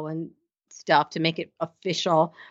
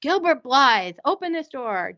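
higher, slowed mock calling through a door; half-hearted demanding call, pitched up; retold calling out; 5 semitones higher than usual. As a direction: imitate someone calling a name while knocking. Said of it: "She's, like, knocking on the door".

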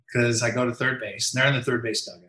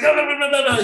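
high, loud run of garbled hollering; imitated distant yelling; 13 semitones higher, 6 dB louder, faster than usual. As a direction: mimic a manager yelling from far away. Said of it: "So he's yelling at me".

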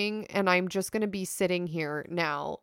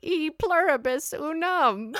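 put-on old hag; 7 semitones higher, slower than usual. Witch voice joke, Latin.

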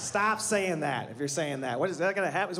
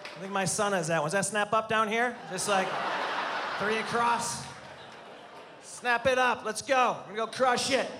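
mock teasing; 3 semitones higher than usual. Teasing audience dudes in tight shirts.

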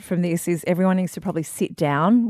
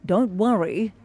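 newsreader voice. Acted. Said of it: "bung on my old newsreader voice".

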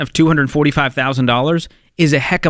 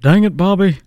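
put-on King of the Hill accent; 6 semitones higher than usual. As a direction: bark it out like a fed-up Texan dad. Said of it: "Do it again, George".

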